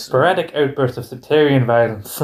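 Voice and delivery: repeated Northern Irish demo phrase; Northern Irish accent. Shown as a demonstration. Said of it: "I can do this in Northern Irish accent".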